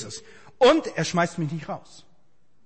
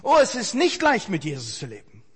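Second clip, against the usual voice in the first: sincere admission; 2 semitones lower than usual. Shown as a demonstration. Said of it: "Habe ich auch noch nie kennengelernt".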